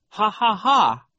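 high, loud, spoken ha-ha-ha; fake laughter. A narrator's reading. Violet pretends to find it funny, fake laugh. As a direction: force out a false laugh. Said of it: "faking all this laughter".

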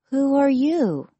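Cinderella voice. A narrator's reading. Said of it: "Cinderella asked".

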